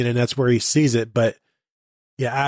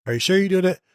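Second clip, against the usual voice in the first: pitched-up, needling reporter voice; doubting reporter; 6 semitones higher, faster than usual. Retold or imitated. Host mimics a reporter pushing Harbaugh, higher and doubtful. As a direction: press him like a skeptical reporter.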